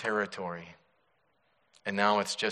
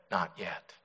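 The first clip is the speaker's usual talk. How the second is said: smiling calm reply; 2 semitones lower, 5 dB quieter than usual. Acted. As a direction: answer calmly with a smile. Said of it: "he only smiled and said".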